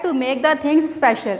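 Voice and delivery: very slow, every word separate; slow definition. Shown as a demonstration. Teacher slowly dictating the definition of the article. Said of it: "definite article क्या होता है?".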